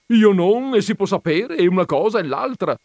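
loud, high exasperated shout. Acted. Veneranda shouting at the gentleman, losing patience. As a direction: yell it out of patience. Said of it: "gridò il signor Veneranda".

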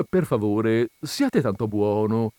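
sweetly. Acted. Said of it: "continuò la colonnella dolcemente".

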